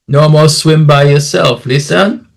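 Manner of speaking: lightly voiced Caribbean local, cautioning; a hint of an islander's friendly scolding; island local. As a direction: warn like a concerned islander, rising at the end. Islander warns the tourist in dialogue.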